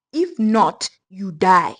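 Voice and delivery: loud sudden threat. Acted. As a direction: hit the last words hard. Witch threatens.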